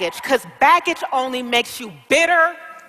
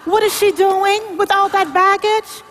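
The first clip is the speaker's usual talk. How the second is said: shocked; 5 semitones higher than usual. Acted. Agent shocked at huge baggage.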